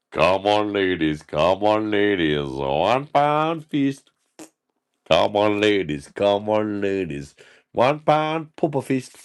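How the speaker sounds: sing-song hawker patter; a mild barrow-boy pitch; market trader call. Pretend. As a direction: call it out like a stallholder.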